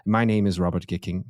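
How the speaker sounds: mock-formal British host introduction; pretentious British accent. Host giving his name to listeners, in a pretentious British accent. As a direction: introduce yourself in a put-on posh British accent. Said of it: "pretentious British accent".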